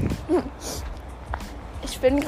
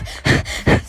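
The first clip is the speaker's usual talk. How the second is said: breathless panting. Shown as a demonstration. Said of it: "so tönen".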